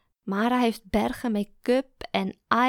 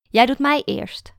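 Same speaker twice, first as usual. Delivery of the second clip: higher, louder, slow and firm; eager insistence; 4 semitones higher, 7 dB louder than usual. A narrator's reading. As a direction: claim the first turn eagerly. (enthousiast aandringend)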